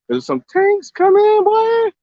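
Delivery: high, slow, drawn-out squeal of excitement; excited squeal. Real, not acted. Vlogger spotting something out at sea, squealing with excitement. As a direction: stretch it up high, thrilled by what you see. Sudden excited sighting on boat.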